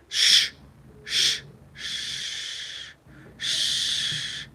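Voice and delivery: unvoiced hush; shushing. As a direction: shush him down. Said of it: "Ben, you've said enough".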